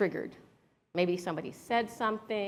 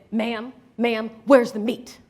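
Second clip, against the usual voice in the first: imitated interrogation, louder at the end; mock insistent officer; 6 dB louder, slower than usual. Officer pressing a vegan during the search, mock insistent. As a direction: press like an officer, building to a loud question.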